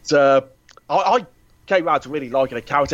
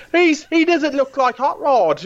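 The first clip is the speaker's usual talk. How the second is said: much higher, slow whiny complaint; mock fan whining; 13 semitones higher, slower than usual. Podcaster mocking fans who whined about Hot Rod, whiny and high. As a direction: whine it like an outraged fanboy. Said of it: "all the fan whining before it came out".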